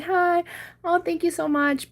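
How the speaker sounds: high-pitched sweet, polite brush-off; super sweet. Retold or imitated. Turning down a flirting guy at the gas station, super sweet. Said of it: "I said something super sweet and nice".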